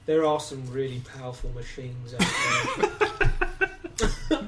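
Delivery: put-on slow, weary old soldier voice; like a tired veteran remembering battle; hollow war-weary soldier. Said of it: "it was like you're an old war-weary soldier".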